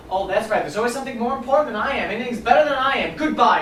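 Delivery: offended, building to a loud goodbye; wounded indignation. Acted. Mother cutting off her son on the phone, wounded indignation. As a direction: play the martyr, then sign off sharply.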